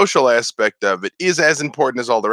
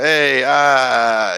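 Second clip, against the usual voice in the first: Victor; 3 semitones higher, 3 dB louder than usual. Retold or imitated. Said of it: "like Victor, I'm always saying".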